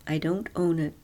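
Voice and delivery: unvoiced whispered aside. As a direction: whisper it under your breath. Aside whisper in story dialogue.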